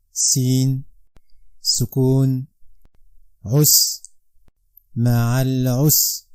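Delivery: Arabic syllables said softly, with "ma'al usri" slowed at the end; soft spelling drill. Shown as a demonstration. Teacher spelling Arabic softly for pupils. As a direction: spell "ma'al usri" gently, then draw it out. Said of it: "basics that this method".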